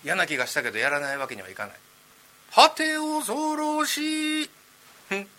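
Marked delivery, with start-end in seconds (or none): 2.5-5.3 high, drawn-out eerie ghost; slow, high spooky moan. Acted. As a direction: stretch it out slow like a wailing ghost. Ghost voice again.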